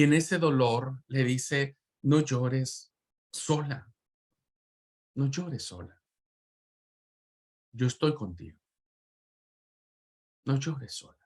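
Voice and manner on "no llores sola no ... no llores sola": soft, quiet and consoling; tender comfort. Acted. Preacher voicing Jesus comforting the widow, softly and tenderly. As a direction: hush her grief gently, close beside her.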